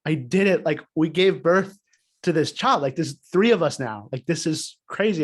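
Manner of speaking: imitating his wife's emotional burst of joy after the birth; emotional outburst. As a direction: retell her overjoyed cry with some lift. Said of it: "she lets out, like, that emotional".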